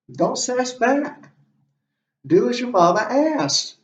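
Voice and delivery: high-pitched mock admonishment, slowed down; mock scolding. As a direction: tell off a child, lightly acted. Voicing the respect owed to mother.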